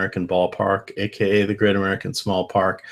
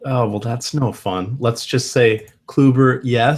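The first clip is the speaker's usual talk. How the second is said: dragged-out choppy audio; laggy slow motion; 3 semitones higher, slower than usual. Real, not acted. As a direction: voice stretched by bad connection lag. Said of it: "you're talking in slow motion to me here".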